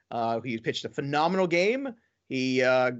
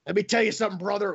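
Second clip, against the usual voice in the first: wrestling promo; 5 semitones higher, faster than usual. Retold or imitated. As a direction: bellow it like a pro wrestler hyping a match. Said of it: "you're like cutting a wrestling promo".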